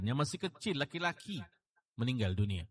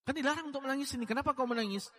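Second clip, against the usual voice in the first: puzzled challenge; faster than usual. Retold or imitated. Restating the questioner's challenge.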